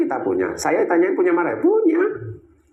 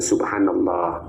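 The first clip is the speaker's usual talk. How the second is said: slow recitation; 6 semitones lower, much slower than usual. Shown as a demonstration. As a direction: draw out each syllable slowly. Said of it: "menegur, ya".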